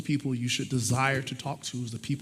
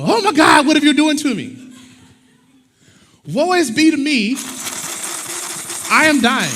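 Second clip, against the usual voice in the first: much higher and louder, wailing in mock agony; over-the-top anguished wail, pitched way up; melodramatic wailing pencil; 12 semitones higher, 13 dB louder than usual. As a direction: ham up the pencil's dying cry. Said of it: "Now the pencil is going".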